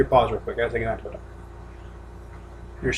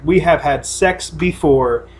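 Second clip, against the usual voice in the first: slow mock lover line; 2 semitones lower, slower than usual.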